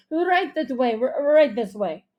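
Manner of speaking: loud, stammering, flustered ushering; frantic. A narrator's reading. Host hurrying the critic's family along, frantic. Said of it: "frantic-looking gestures".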